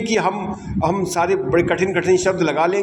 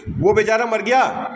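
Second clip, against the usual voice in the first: wrong way; 5 semitones higher than usual. Shown as a demonstration. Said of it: "ऐसे तो नहीं बोलेंगे ना".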